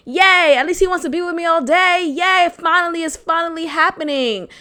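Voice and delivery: high, bright-eyed mock celebration; mock giddy cheer. Young girlfriend cheering to herself, mock excited. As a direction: cheer like a girl who finally got a boyfriend. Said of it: "that was my mindset".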